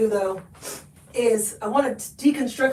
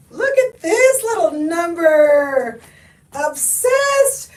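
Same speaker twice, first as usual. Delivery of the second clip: gushing delight; 5 semitones higher, 4 dB louder, much slower than usual. Real, not acted. Gushing over a scarf.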